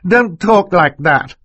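put-on high, slow girl's protest; distressed plea. Violet begging the villain to stop, high and distressed. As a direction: plead upset, pitched right up.

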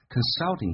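consulting with the L sounded clearly; 把consulting里的L发出来. Shown as a demonstration. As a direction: make the L in consulting audible. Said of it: "这个L要发出来".

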